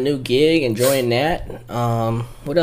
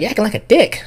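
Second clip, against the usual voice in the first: put-on high girl voice; 9 semitones higher than usual. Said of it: "She's like".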